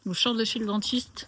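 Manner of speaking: numb mouth after the dentist; slightly slurred, numb lips. Real, not acted. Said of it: "c'est pour ça que je parle comme ça".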